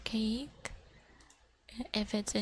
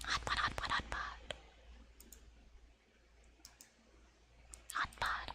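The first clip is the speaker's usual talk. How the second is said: fading whisper; 9 dB quieter than usual. Acted. Chanting hot pot to viewers, fading whisper. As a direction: chant trailing off to a breathy nothing.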